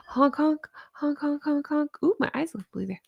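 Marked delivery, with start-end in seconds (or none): 0.1-1.9 silly clown. Pretend. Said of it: "I might have lost the plot".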